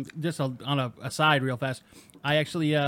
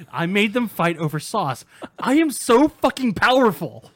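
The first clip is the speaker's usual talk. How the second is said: loud, booming god-like gloating; megalomaniac boast; 5 semitones higher, 8 dB louder than usual. Retold or imitated. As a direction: gloat like an all-powerful creator. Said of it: "think Dan Harmon right now".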